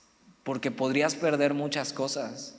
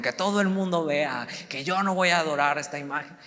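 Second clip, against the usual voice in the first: raised, higher-pitched showy declaration; mock loud proclamation; 4 semitones higher than usual. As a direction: announce it for everyone to see, mock-defiant. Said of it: "sin levantar la voz".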